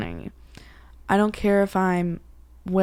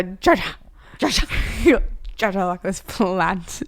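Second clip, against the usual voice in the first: mock excited call. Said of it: "you go".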